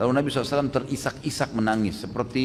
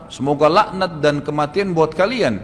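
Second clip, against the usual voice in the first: marah; 3 semitones higher, 5 dB louder, slower than usual. Retold or imitated. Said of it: "Aisyah marah".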